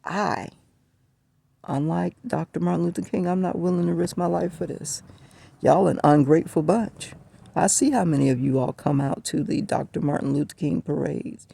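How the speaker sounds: a heated radio host scolding the audience; telling off the callers. Retold or imitated. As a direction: lecture the callers with rising heat. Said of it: "I started telling these people".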